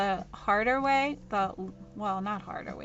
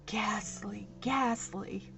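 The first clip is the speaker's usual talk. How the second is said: mock horror; 5 dB quieter than usual. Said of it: "I might tell everybody myself".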